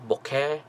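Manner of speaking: BOKEH as BOH-keh with a questioning rise; unsure pronunciation. Shown as a demonstration. Presenter testing variants for viewers, unsure pronunciation. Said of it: "I don't know how to pronounce it".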